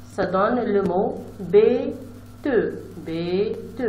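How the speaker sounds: bête drawn out slowly at the end; slow blending. Shown as a demonstration. Teacher modelling how to blend bête slowly. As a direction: blend the word slowly for pupils. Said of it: "J'écris une bête".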